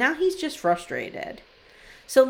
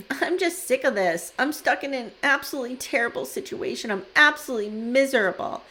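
put-on sulky teen rant; 3 semitones higher than usual. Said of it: "channeling my fifteen-year-old daughters here".

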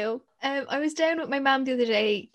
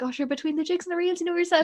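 tag; 6 semitones higher, faster than usual. Retold or imitated. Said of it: "I'm like".

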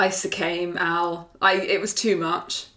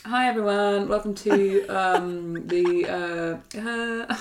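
flat, fading hi everyone with ums; mock-bored podcast welcome; low-energy mumbled intro; slower than usual. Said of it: "and you were like".

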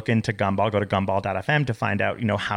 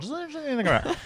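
laughing tease; 4 dB quieter, faster than usual. Acted. High laughing teasing close.

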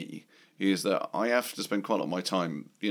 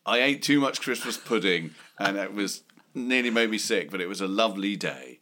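ironic intonation. Shown as a demonstration. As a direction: say it like you're clearly joking. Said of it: "you can tell from my intonation there".

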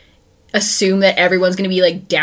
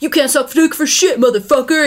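mock high insult; 8 semitones higher than usual. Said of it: "he's like".

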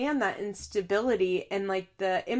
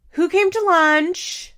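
slow, high, loud prying question; mock interrogating mother; 8 semitones higher, 8 dB louder, slower than usual. Vlogger mimics Chelsea grilling Aubrey in the car, mock prying. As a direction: stretch it out loud, mocking a nosy mom.

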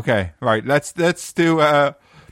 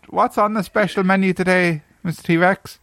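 customer voice; 4 semitones higher than usual. Acted. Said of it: "I was playing an average customer".

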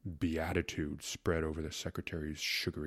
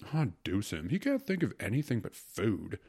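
mildly grumbling philosopher; disdainful complaint, lightly voiced; 4 semitones higher than usual. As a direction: grumble with a touch of contempt. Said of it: "grumbled Milken the philosopher".

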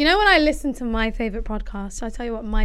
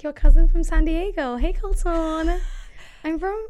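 San Diego babe; 4 semitones higher than usual. Pretend. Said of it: "I'd be like".

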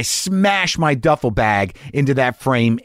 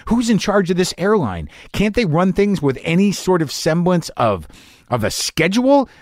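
rising exasperated rant about the airport; vent, building higher toward the end; angry rant; 5 semitones higher than usual. Retold or imitated. Stuck on the runway, ranting at the airline, getting angrier.

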